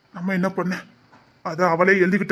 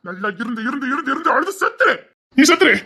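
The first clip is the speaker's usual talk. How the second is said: bitter angry outburst; 4 semitones higher than usual. Acted. Bitter rant at crying wife.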